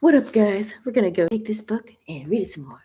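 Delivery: put-on DJ announcer voice; Spotify DJ. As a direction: imitate a streaming DJ greeting listeners. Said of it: "Feel like being a Spotify D J".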